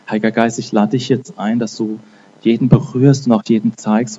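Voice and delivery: fervent spoken prayer to the Holy Spirit; earnest prayer. Acted. Preacher inviting the Holy Spirit over his listeners, fervent prayer. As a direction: pray it out over the room, rising in fervor.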